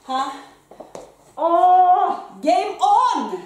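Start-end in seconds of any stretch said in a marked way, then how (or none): 1.3-3.4 loud, high pump-up shout; hyped shout. Real, not acted. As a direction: yell it to fire yourself up mid-workout. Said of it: "om du tycker jag skriker".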